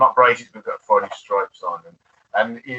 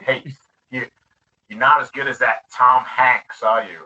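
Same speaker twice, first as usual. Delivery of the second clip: mock American accent; 2 semitones higher, 4 dB louder than usual. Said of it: "excuse my American accent".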